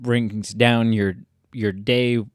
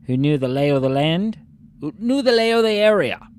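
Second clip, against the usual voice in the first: put-on English accent. Player reading a letter to Billy Lurk, English accent. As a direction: read it out in a lightly acted English accent. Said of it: "you have to read this in an English accent".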